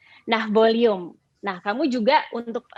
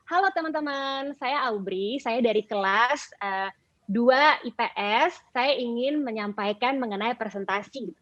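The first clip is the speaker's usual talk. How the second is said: smiling, positive; 2 semitones higher than usual. Shown as a demonstration. Teacher showing a cheerful presentation opening with a smile. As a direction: greet the class with a smile in your voice. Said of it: "memberikan senyuman, energi positif".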